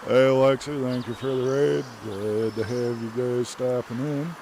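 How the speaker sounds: loud, excited raid welcome; hype friend cheering. Real, not acted. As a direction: cheer the raiders in loudly.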